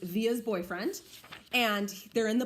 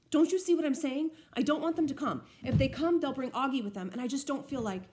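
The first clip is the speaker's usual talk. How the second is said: higher and louder, distressed pleading; upset, near crying; 5 semitones higher, 4 dB louder than usual. Acted. Olivia breaking down to Justin, higher and louder distress. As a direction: push through rising upset. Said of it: "hit by another round of crying".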